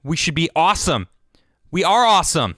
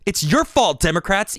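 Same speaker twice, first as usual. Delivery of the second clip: normal talking voice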